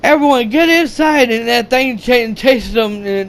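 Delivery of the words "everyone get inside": higher, louder command to take cover; urgent order. Retold or imitated. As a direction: rush them inside. Leader orders retreat from dragon.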